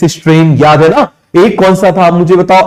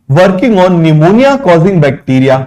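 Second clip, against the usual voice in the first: slow dictation; much slower than usual. Shown as a demonstration. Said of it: "dictating notes".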